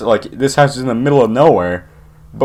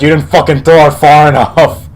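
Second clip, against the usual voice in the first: louder, higher mock yell with a laugh; retold yelling; 4 semitones higher, 5 dB louder than usual. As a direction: imitate an angry stepdad, laughing through it. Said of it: "he's, like, yelling at me".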